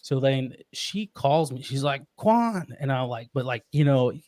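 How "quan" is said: high, stretched call imitating a crying wife; mock crying while trying to call out; imitated tearful call. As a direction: call the name as if through tears. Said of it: "when women are crying and they're trying to".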